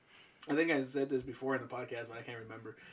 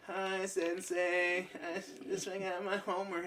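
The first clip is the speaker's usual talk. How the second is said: sheepish apology; 6 dB quieter, slower than usual. Retold or imitated. Student apologizing to teacher.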